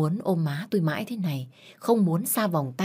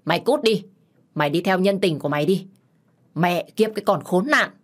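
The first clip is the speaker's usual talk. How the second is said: cursing yell; 3 semitones higher, 4 dB louder than usual. Acted. Husband cursing after his wife as she walks out, angry yell. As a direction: shout curses after her, a little louder. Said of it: "Ba tôi chửi với theo".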